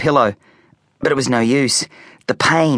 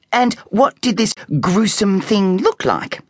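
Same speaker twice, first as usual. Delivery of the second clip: sceptical mum; 9 semitones higher than usual. A narrator's reading. Mum humouring silly charade.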